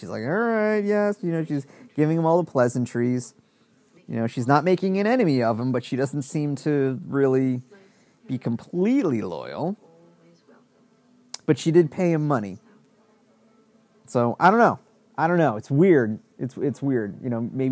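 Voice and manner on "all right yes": casual, unbothered tone. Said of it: "she's just kinda nonchalant".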